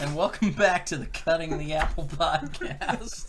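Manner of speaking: podcast host voice. Acted. Mock podcast intro.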